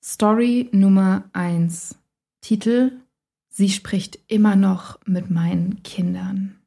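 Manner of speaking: slow, hushed title read; whispered eerie title; spooky announcement. Acted.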